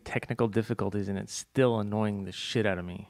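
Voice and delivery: robotic glitchy audio. Real, not acted. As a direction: talk through a glitching line. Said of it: "You sound like a robot".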